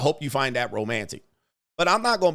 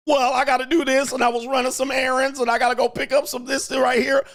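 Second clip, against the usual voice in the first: high, fast whiny excuses; high whiny girlfriend voice; 10 semitones higher than usual. Retold or imitated.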